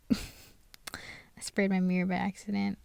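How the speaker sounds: hushed giggle through the words; laughing whisper. Real, not acted. Just sprayed mirror by accident.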